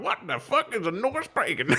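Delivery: high, giggly mock bafflement; laughing disbelief. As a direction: ask it while cracking up. Puzzled passersby quoted laughing.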